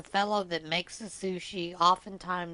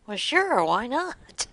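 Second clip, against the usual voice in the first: pitched-up mock-innocent sure; cheeky high reply; 5 semitones higher, 5 dB louder, slower than usual. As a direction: toss it back up high. Retold cheeky reply to friend.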